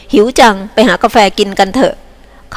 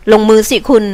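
cheerful; 2 semitones higher, 4 dB louder, faster than usual. Acted. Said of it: "ด้วยน้ำเสียงอันแสดงความรื่นรมย์".

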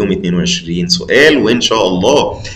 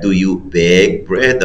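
slow right answer; much slower than usual. Shown as a demonstration. Teacher giving the correct answer, slow and clear. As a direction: do you bake bread, slow with a rise on "bread". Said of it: "يبقى هي".

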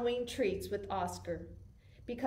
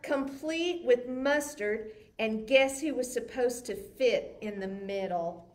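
put-on lively read-aloud for kids; story narration. A narrator's reading. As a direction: tell it like a bedtime picture book. Reads picture book aloud.

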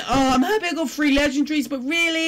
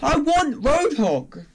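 whining; 4 semitones higher, much slower than usual. Acted. Wanting a skin he didn't get.

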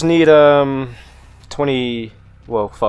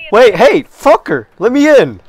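calling out; 6 semitones higher than usual. Real, not acted. Yelling to be let in.

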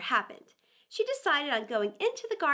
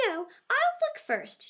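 put-on higher, slow careful girl's voice; cautious Alice; 8 semitones higher, slower than usual. A narrator's reading. Alice deciding to check the bottle, slow and careful. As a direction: say it slowly, being sensible. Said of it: "she said".

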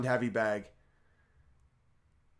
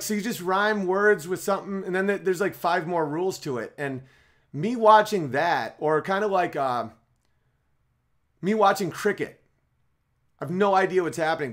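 ordinary talk, nothing marked

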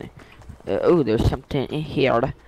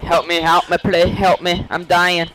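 higher-pitched, half-playful plea; pleading for help; 4 semitones higher than usual. Pretend. Downed player begging for revival, mock-desperate plea. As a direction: beg teammates to save you, playfully.

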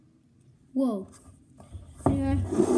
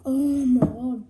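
loud exclamation; 4 semitones lower, 8 dB louder than usual. Real, not acted. Reacting to extreme sour taste.

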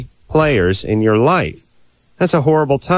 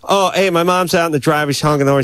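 hurried brush-off; much faster than usual. Retold or imitated. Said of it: "and you go".

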